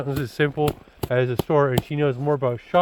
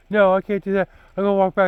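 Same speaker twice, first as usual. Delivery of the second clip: higher, louder retold protest; mock freak-out; 5 semitones higher, 5 dB louder, faster than usual. Dad retelling his girlfriend refusing the long walk, mock freak-out. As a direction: imitate an upset girlfriend raising her voice.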